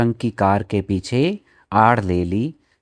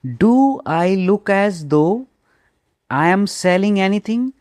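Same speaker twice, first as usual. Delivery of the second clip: indignant question; 9 semitones higher, much slower than usual. Retold or imitated. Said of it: "Ravi asked her".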